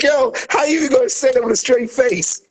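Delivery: high, amazed disbelief in a put-on voice; incredulous. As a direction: ask it as if you cannot believe it. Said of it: "I was like".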